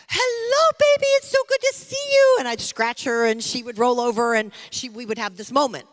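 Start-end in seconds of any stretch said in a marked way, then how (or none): 0.1-2.4 very high, cooing sing-song greeting; baby talk to dog. Retold or imitated. Mom greeting her little dog in a very high coo. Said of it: "and I would say".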